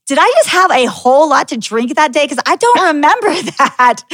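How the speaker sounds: lightly acted, laughing bewilderment; retold confusion. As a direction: puzzle over it, half laughing. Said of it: "I was so confused".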